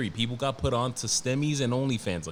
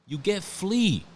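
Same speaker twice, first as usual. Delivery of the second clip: higher, heavier New York twang on flea; New York accent; 8 semitones higher, slower than usual. Shown as a demonstration. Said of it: "that's the New York in me".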